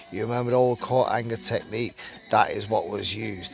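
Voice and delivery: reading a written account aloud; story read-aloud. Acted. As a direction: read it out like a magazine true story.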